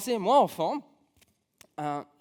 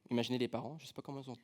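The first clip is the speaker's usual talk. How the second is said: normal talking voice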